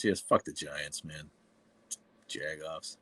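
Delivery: usual speaking voice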